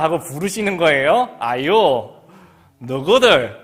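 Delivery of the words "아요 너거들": loud Gyeongsang 아요, 너거들; Gyeongsang dialect. Retold or imitated. Teacher calling pupils, loud Gyeongsang dialect. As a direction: call the class in Gyeongsang dialect. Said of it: "경상도 말로".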